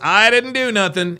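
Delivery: mocking quote. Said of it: "There it is".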